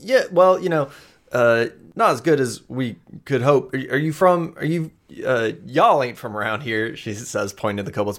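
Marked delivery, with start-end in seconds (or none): 0.0-7.0 put-on higher, flustered young woman brushing off help; nervous Amoya. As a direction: stammer out that she's fine, pitched up. Amoya answers.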